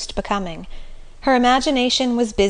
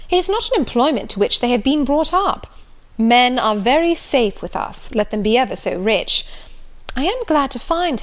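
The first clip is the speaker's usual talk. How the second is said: good-humoured; 3 semitones higher than usual. Acted. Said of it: "with a good-humoured smile".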